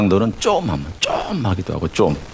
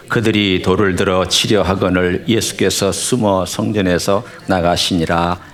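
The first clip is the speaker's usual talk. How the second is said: measured, solemn Bible reading; scripture reading. Acted. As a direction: read the verses steadily to the congregation. Reads scripture aloud.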